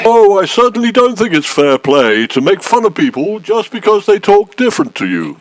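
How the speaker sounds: posh voice at normal pace; putting on posh. Acted. Complainant objecting to being mocked, in a put-on posh voice. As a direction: talk proper, at an everyday speed. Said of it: "You know, talking proper like".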